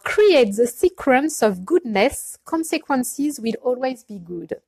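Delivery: slow English read in a light Houston, Texas accent; playful slow Texan-accented English reading. Shown as a demonstration. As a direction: read the card slowly with a hint of Texan. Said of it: "attention avec mon accent de Houston".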